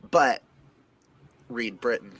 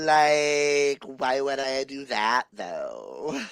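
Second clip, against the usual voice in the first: mock Valley Girl comeback, falling away at the end; 3 semitones higher, much slower than usual. Answering a friend's grammar complaint, playful Valley Girl accent. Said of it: "do a really good Valley Girl".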